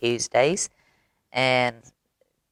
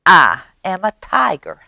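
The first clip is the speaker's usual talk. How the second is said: a slightly higher mouse voice; lightly voiced little boaster, pitched up; mouse's boast; 4 semitones higher, 4 dB louder than usual. Mouse claiming to be a tiger.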